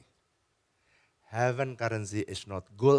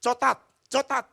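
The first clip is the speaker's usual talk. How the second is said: put-on high, louder little-girl voice; high childish "Cotat, cotat"; child asking for chocolate; 12 semitones higher, 6 dB louder than usual. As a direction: ask the shopkeeper like a small child. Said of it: "kasih warungnya".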